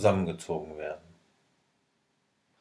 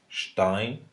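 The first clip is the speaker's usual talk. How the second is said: sounding out words; much slower than usual. Shown as a demonstration. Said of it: "aber sprichst".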